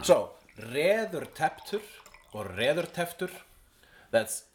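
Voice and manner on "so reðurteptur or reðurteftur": reðurteftur said slowly, rolled r, Icelandic vowels; slow Icelandic teaching. Shown as a demonstration. Teaching a friend an Icelandic word, slow careful pronunciation. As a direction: spell out reðurteftur for the learner. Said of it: "teaching Icelandic word".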